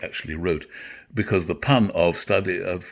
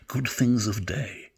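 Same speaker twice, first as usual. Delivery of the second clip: savoured whisper; 4 semitones higher, slower than usual. Shown as a demonstration. Actor savouring a favourite line for listeners, whispered. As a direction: whisper the phrase slowly, relishing each word. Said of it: "An extraordinary line".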